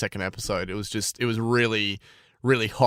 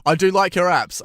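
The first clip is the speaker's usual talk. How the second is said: emphatic plea; 7 semitones higher, 7 dB louder than usual. Real, not acted. Pleading with the bank.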